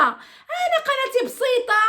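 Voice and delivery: slow amused laugh in the voice. Real, not acted. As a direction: laugh it off, my channel is tiny. Laughing off her small channel.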